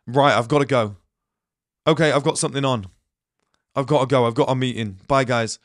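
mildly curt, decisive exit; rude brush-off. Shown as a demonstration. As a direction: cut them off and go. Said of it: "what I mean by rude is like".

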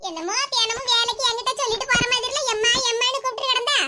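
lightly voiced grumpy mother-in-law; a hint of a cranky old mother scolding her son. Mother-in-law nagging her son about work, lightly voiced.

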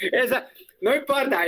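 risa aguda y fuerte; riendo. Real, not acted. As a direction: se ríe con ganas. Profesor se ríe de la alumna. (riéndose antes de hablar)

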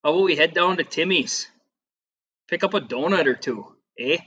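light mock-Canadian voice ending on "eh"; lightly imitated Canadian accent. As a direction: play a Canadian suggesting a coffee run. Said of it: "it would be like that".

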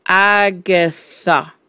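slow, drawn-out eerie voice; spooky, stretched syllables; ghostly message. A narrator's reading. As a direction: intone it like a message from beyond. Ghostly chalk message read out.

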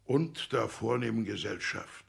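mocking repeat. Father repeats the phrase mockingly.

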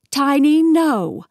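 loud high scold; scolding the dog. Acted. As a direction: sharply tell the dog no.

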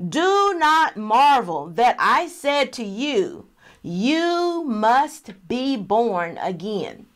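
slow, deliberate Bible reading; scripture reading. Real, not acted. Teacher reading verse seven to the listeners, slow scripture reading. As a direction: read the verse out slowly, weighing each word.

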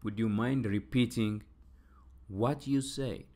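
very slow, every word spelled out for students; slow classroom model reading; slow drill. Shown as a demonstration. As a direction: draw out each word so learners can follow. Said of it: "teacher drills the phrase slowly".

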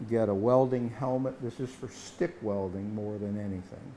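ordinary talk, nothing marked

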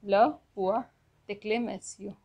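"Le point d'exclamation" repeated in chunks; French pronunciation demo. Shown as a demonstration. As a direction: model "Le point d'exclamation" word by word. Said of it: "Exclamation mark is pronounced as".

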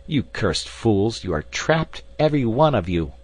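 acted villain's tirade, easing slightly as it goes; frantic gloating. A narrator's reading. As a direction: crow over trapped enemies across a chasm. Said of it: "more frantic than before".

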